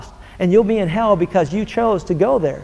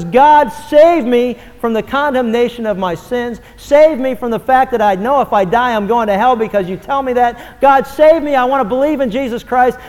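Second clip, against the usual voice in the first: pleading loudly, slowed, up high; a desperate sinner calling out for rescue; crying out to God; 4 semitones higher, 4 dB louder than usual. Acted. Sinner crying out to God for salvation, loud pleading. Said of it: "Anyone who cries out, says".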